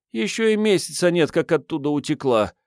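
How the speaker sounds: put-on high girlish voice, easing downward; mild sigh in a high voice. A narrator's reading. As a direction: play a girl's weary admission. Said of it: "вздохнула дева".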